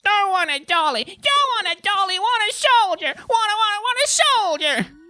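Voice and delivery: put-on very high, loud child's tantrum; screaming small boy. A narrator's reading. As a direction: wail it like an affronted toddler. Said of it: "his screaming mouth".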